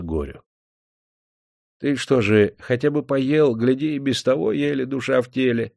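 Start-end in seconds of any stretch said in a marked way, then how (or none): 1.8-5.7 kindly cook. A narrator's reading. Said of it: "предложила сердобольная стрепуха".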